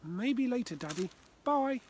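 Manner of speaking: called back. Acted. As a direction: shout it over your shoulder as you run. Child running off, calling back.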